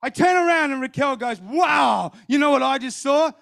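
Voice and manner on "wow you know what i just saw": higher, wowed outburst; bursting to share a vision; imitated amazement. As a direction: act out an amazed wife. Wife's amazed outburst after vision.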